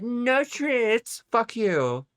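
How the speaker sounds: high, bratty mimic; mock bratty voice. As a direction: imitate him in a whiny high voice. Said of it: "and then be like".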